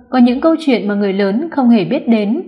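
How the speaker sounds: usual speaking voice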